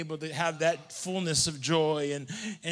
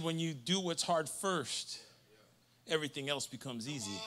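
much softer, hushed saying; soft quote; 4 semitones lower, 11 dB quieter than usual. Retold or imitated. Preacher quoting old prophets to church, hushed. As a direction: let the old saying settle softly. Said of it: "They said".

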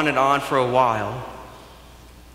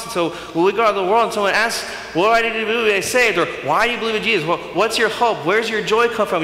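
rising preacher's fervor; 8 semitones higher, 4 dB louder, faster than usual. Real, not acted. Preacher builds to asked questions.

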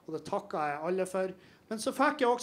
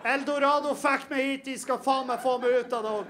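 angry punchline; 4 semitones higher than usual. Acted. Continuing the rant.

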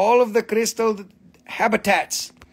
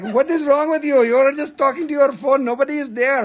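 raised, louder, disbelieving; mock incredulous onlooker; 6 semitones higher, 4 dB louder than usual. Imagined stranger filming her, mock incredulous and raised. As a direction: play the baffled bystander. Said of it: "and be like".

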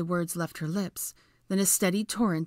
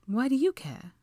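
terse; 8 semitones higher than usual. A narrator's reading. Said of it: "Hermione replied tersely".

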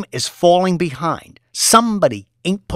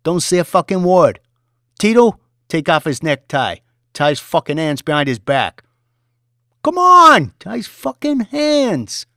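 loud high screamed commands; furious orders; 7 semitones higher, 7 dB louder than usual. Acted. Boss ordering violence.

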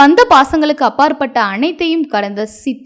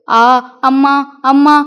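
anguished cry. Acted. Girl being beaten crying out for her mother. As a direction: cry out for mother under the blows. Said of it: "கீதாவின் கதறல்".

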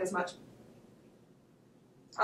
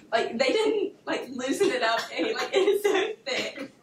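laughing; 3 semitones higher, slower than usual. Real, not acted. Laughing at the thick filling.

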